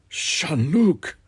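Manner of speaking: high, drawn-out moan of the name. A narrator's reading. Teased about being dumbstruck, Louis moans. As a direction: moan it in lovelorn protest. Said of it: "moaned Louis".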